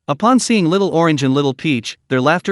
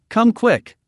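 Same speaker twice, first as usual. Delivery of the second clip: excited call; 7 semitones higher than usual. A narrator's reading. Child calls daddy urgently.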